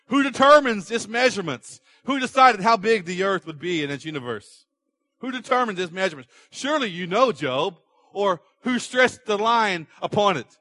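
God demanding an answer from Job; thundering God. Acted.

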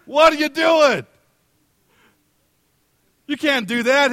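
loud, high, furious shout at a line cutter; man in line yelling at a line cutter, angry shout. Retold or imitated. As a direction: yell it across the queue, outraged. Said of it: "he started yelling at the guy".

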